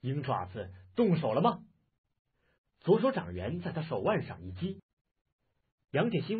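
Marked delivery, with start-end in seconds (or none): 0.0-1.6 cold sneer. Acted. Taoist to his attacker with the dagger, a cold sneer. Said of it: "道人冷笑道".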